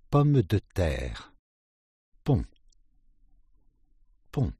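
ordinary talk, nothing marked

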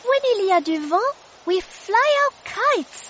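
high, quick and bubbly; a delighted little kid; excited child voice. Acted. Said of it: "said Lucia".

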